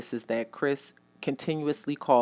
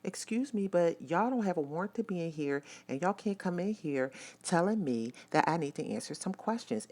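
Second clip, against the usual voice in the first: mildly indignant surprise; 5 semitones higher, 4 dB quieter than usual. Retold or imitated. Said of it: "really taken aback".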